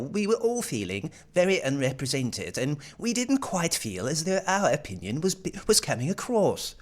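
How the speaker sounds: a light mock posh English accent. Mimicking the Epping lady, light posh English accent. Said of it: "Very nice posh accent there".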